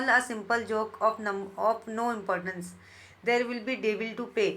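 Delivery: very slow, deliberate reading of verse; teacher reading poetry aloud; poem recitation. Shown as a demonstration. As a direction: savour each word of the poem line.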